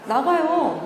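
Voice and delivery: ordinary talk, nothing marked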